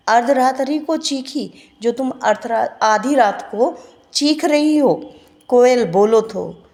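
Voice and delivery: teacher voices the poet urging the koel; poem recitation. Shown as a demonstration. Recites pleading stanza.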